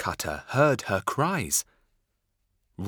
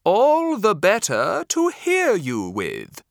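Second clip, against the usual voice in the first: louder, higher wolf growling the answer; big bad wolf; 9 semitones higher, 6 dB louder than usual. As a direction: menace her as the wolf. Wolf answers Red Riding Hood.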